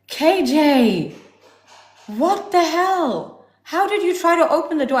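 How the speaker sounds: high, mock-outraged retelling of a partner; exasperated imitation.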